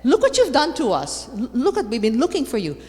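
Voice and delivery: a frightened mother scolding her lost son; worried reproach. Retold or imitated. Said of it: "and she says".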